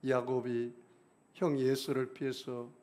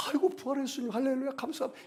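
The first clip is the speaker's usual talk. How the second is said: joyful cry; 11 semitones higher, faster than usual. Retold or imitated. Retold joyful cry to Jesus.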